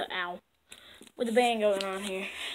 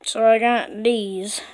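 a lightly voiced old man; 2 semitones lower, slower than usual. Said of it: "You just have the old man voice again".

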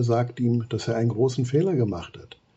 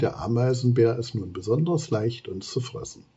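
despairing; 2 semitones higher, 3 dB louder than usual. Acted. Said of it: "Thea erklärt verzweifelt".

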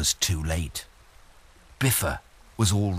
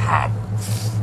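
troll humph; 3 semitones lower than usual. Acted. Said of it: "said the troll".

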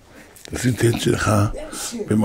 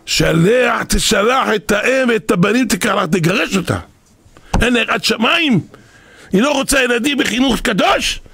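angry order; 6 semitones higher than usual. Retold or imitated. Rosh yeshiva ordering the husband to divorce, indignant. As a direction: lay down the law, outraged.

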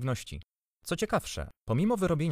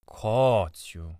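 drawn-out, indulgent call; kindly call; 4 dB louder than usual. A narrator's reading. Aunt calling her angry husband, kindly. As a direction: call to him with mild goodness. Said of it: "zawołała ciocia z dobrocią".

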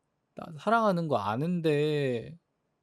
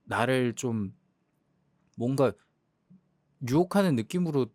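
usual speaking voice

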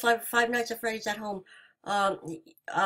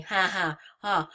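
sarcastic fake laugh; 2 semitones lower than usual. Real, not acted. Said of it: "I'm laughing so hard right now".

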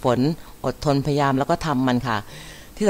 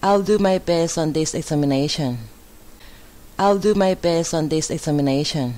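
model sentence reading; 3 semitones higher, much slower than usual. Shown as a demonstration. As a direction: read it out clearly for learners to repeat. Models English example sentences.

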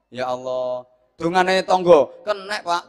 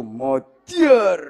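card player's exclamation; 4 semitones higher, 6 dB louder than usual. Acted. Acting out a card player slamming cards.

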